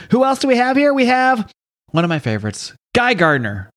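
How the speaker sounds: excited announcer. Real, not acted. Host announces next hero.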